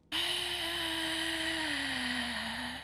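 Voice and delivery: soft, high drawn-out sighing noise; long exhale. Real, not acted. Finding no sticks left, long soft sigh. Cannot find any sticks.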